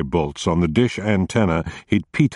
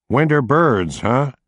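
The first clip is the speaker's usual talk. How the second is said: higher, bemused repeat of Winter birds with a fall on birds; doubtful, amused echo of Winter birds; 6 semitones higher, slower than usual. A narrator's reading. Cop echoing Roscoe's excuse, bemused and higher. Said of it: "giving him a bemused look".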